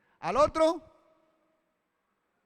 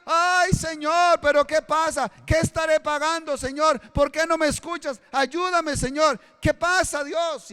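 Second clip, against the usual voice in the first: whiny lament; 8 semitones higher, 5 dB louder than usual. Retold or imitated. Preacher mimics a believer complaining to God in a trial, high whiny wail. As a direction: moan to God as if everything is falling apart.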